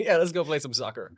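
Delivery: quick, easygoing American, a bit fast; American accent, hurried and laughing; casual American accent. Shown as a demonstration. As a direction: sound like an American bro. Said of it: "don't make fun of my American accent".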